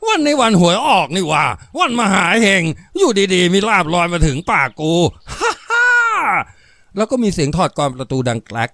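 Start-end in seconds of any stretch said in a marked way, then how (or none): 0.1-7.0 delighted guffawing, raised voice; หัวเราะร่า. A narrator's reading. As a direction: crow with glee between big laughs. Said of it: "กลายเป็นเสียงหัวเราะร่าอย่างคนเบิกบานอยู่ในความสุข". (หัวเราะร่าอย่างเบิกบาน)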